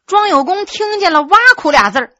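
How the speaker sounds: usual speaking voice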